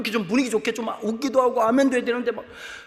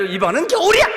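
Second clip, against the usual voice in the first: sudden announcement; 8 semitones higher, 8 dB louder than usual. Pretend. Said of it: "갑자기 나죠".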